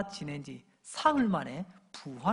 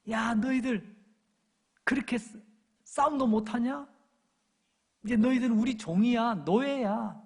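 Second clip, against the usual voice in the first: higher-pitched acted taunt; jeering mockery; 5 semitones higher, 3 dB louder than usual. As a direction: call out scornfully at captured enemies. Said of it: "그러면서 조롱하며 그들을".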